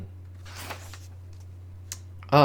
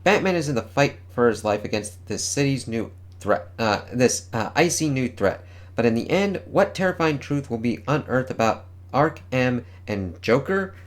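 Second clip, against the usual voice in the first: announcer read. Acted. Reads comic solicitation text.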